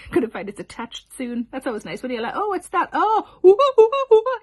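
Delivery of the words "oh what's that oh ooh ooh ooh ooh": rising, louder squeals of disgust; grossed-out surprise. Real, not acted. Comedian finds a hair in her mouth, rising squeals. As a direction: squeal as you realise it's a hair.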